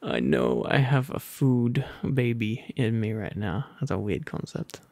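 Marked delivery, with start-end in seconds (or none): none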